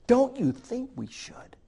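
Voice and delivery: gentle whisper. Retold or imitated. Urging friends to write to their kids, whispered.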